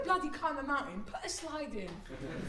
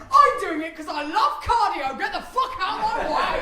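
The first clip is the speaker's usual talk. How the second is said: loud, higher aggressive bark; macho yell; 6 semitones higher, 12 dB louder than usual. Retold or imitated. Comic's macho climbing self, loud and aggressive. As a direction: shove past like a gym bro. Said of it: "And I'd be like".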